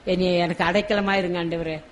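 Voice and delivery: softly modelled plea to God; mild, acted tearful praying, kept soft; tearful prayer. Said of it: "கண்ணீரோடு கேட்போம்". (லேசான கண்ணீர் ஜெபம், மென்மையான குரலில்)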